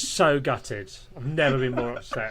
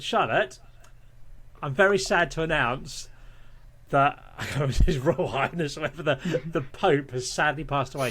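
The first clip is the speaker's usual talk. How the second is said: serious voice. Retold or imitated. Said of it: "I put, like, a serious voice 'cause I was quite drunk".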